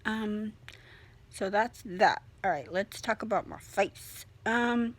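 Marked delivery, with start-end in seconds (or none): 2.4-4.9 speaking through a swollen, stiff jaw; barely opening the mouth, sore jaw. Real, not acted. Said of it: "as you can see and hear, I can speak a little bit better".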